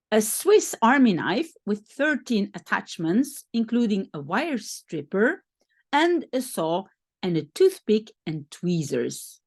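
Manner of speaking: speaking around a dental retainer; slightly slurred, retainer in the mouth; wearing a retainer. Real, not acted. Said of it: "je ne sais pas très bien articuler".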